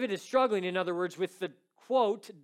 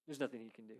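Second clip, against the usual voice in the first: "There's nothing he can do" softer, trailing off; fading echo; 7 semitones lower, 14 dB quieter, much faster than usual. Retold or imitated. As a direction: let the repeat sink away into grief.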